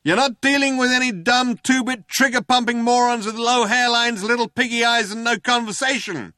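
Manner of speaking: high, loud, sustained hailer shout. A narrator's reading. Cop protesting he is intelligent and caring, shouting through loud hailer. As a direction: keep calling out as if over a loud hailer. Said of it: "said the voice on the loud hailer".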